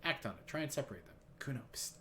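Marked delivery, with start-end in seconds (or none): 1.4-1.9 softly getting someone's attention; hushed psst. Acted. Player trying to draw Kuno aside, hushed.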